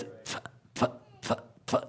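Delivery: "th-" as short unvoiced puffs; released puffs. Shown as a demonstration. Teacher showing a tight aspirated consonant, short puffs. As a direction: puff "th-" out lightly, one by one. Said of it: "Like the P is actually a P H".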